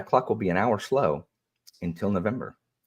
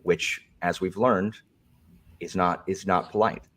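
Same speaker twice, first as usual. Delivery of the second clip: prim moderator voice. Pretend. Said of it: "if this is the new Alan".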